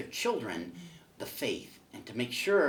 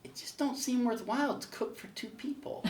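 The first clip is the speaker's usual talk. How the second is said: God deadpanning; 11 semitones higher than usual. Acted. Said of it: "And God says".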